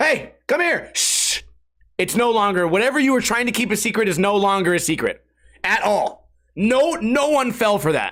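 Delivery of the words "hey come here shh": put-on yell, higher pitched. Retelling a guy who called his friend over: imitating someone yelling. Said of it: "You just yelled".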